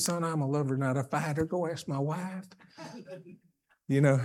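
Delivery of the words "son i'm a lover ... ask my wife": dry joke. Retold or imitated. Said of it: "I said".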